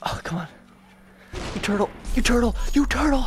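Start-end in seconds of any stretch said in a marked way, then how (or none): 1.5-3.2 taunting shout. Real, not acted. Taunting slow enemy, building up.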